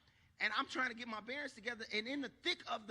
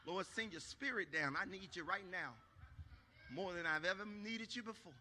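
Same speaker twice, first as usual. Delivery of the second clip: prayerful plea; 3 semitones lower, 5 dB quieter than usual. Acted. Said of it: "so spiritual and prayerful in my life".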